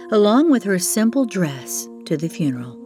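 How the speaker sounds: ordinary delivery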